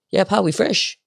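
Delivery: high, put-on placating lad voice; lads' voice. Four lads backing down to the speaker, mock placating voice.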